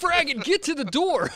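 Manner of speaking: high, loud yell to run; urgent shout. Acted. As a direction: shout at them to run for the door. Urging players to flee.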